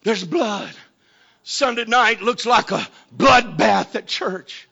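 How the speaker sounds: soft, sober drop after the climax; subdued sermon aside; hushed preaching. Real, not acted. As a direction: let it fall quiet and grave. Preacher drops down after shouted climax.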